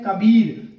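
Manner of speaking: कबीर with weight on the long बी; कबीर, stressing बी. Shown as a demonstration. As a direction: lean on बी, the second syllable of कबीर. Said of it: "कबीर में बलाघात बी पर है".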